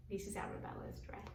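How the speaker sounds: whispered, slow da da dress. Pretend. Teacher whispering to the children, softly and slowly. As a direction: hush it like a secret.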